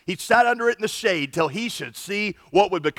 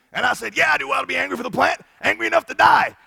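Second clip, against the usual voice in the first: higher and rising, building to a loud whine; whiny angry Jonah; 7 semitones higher, 3 dB louder, faster than usual. Retold or imitated. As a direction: escalate into a petulant outburst. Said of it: "if I were Jonah's counselor".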